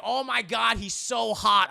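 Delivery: high, loud swooning gush; giddy gushing. Retold or imitated. Lucy gushes to Mina about Dracula, loud and giddy. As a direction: swoon over him out loud.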